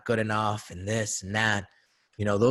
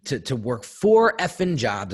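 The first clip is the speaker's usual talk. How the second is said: louder, slow, every word hammered; dad stressing four jobs, slow and heavy; slow angry emphasis; 3 semitones higher, 6 dB louder than usual. Retold or imitated. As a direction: grind out the complaint. Father lecturing son, retold.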